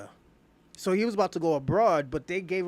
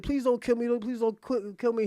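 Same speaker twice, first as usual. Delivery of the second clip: higher-pitched mock begging, stumbling over words; panicked pleading; 5 semitones higher than usual. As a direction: imitate a butler begging for mercy. Voices butler begging for his life.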